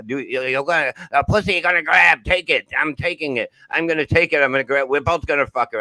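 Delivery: hammed-up hillbilly accent. Comic imitating a friend's crude stage rant, hillbilly accent. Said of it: "I'm doing a fucking hillbilly accent".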